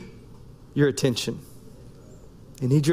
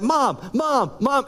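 put-on slightly raised kid voice nagging mom; pestering kid; 5 semitones higher, slower than usual. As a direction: whine for mom from the back seat. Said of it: "he's like".

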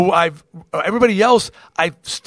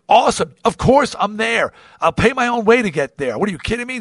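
higher-pitched, excited yes; retold eager acceptance; 5 semitones higher than usual. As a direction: replay jumping at the invitation. Retelling his eager yes to the call.

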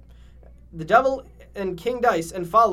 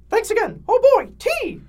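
high cartoon voice; 8 dB louder than usual. Cuphead character voice in fanfic.

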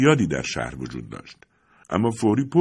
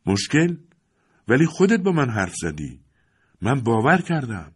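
upset son; 4 semitones higher than usual. Acted. Son argues with father.

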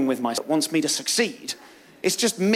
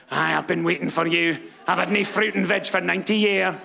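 Scottish granny. Retold or imitated. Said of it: "'cause she's Scottish".

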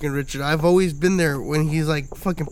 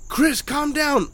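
mock pleading in a high voice; alarmed friends; 8 semitones higher, much slower than usual. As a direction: imitate worried friends calling him off in a raised pitch. Friends urging him to calm down.

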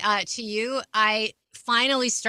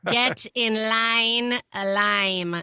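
battle cry; much slower than usual. Pretend. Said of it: "I'm writing that down".

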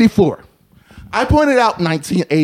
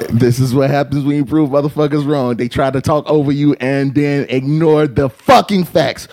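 very low, even-pitched commentary; deadpan refrain; 11 semitones lower, 3 dB quieter than usual. Real, not acted. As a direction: drop low and stay unbothered. Low closing commentary on the argument.

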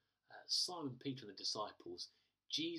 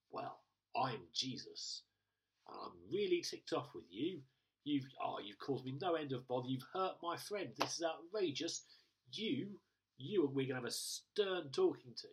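mock indignant scolding; 2 semitones higher, 5 dB louder than usual. Imagined Jesus scolding Saul, in mock outrage. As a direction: play an outraged Jesus, half joking.

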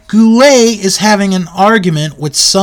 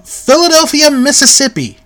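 higher, announcer-like lift; mock hometown announcement; 9 semitones higher than usual. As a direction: proclaim it like a ring introduction.

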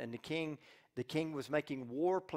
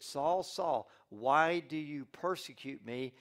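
voice of Jesus; 4 dB louder, slower than usual. Acted. Jesus' voice calling Saul.

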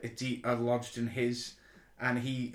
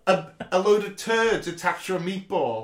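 high, loud, laughing storytelling; 7 semitones higher, 9 dB louder than usual. Real, not acted. Podcaster recounting the silly Dalek reveal, laughing loudly. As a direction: tell it through giggles. Laughing retelling of Doctor Who.

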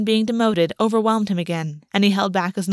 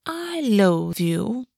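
grinning; much slower than usual. A narrator's reading. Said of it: "grinning at him".

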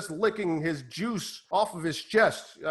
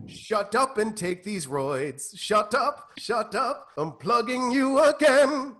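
bossy handler; 4 semitones higher, slower than usual. Acted. Handler silencing the fighter.

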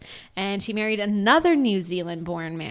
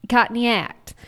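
attempted Australian accent; 3 semitones higher, 5 dB louder than usual. Shown as a demonstration. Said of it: "I can say this".

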